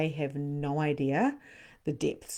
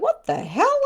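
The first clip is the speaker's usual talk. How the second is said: sudden squeak, much higher and louder; surprised; 9 dB louder than usual. Retold or imitated. Reader recalling a sudden burst of energy, mock surprise. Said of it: "And I was like".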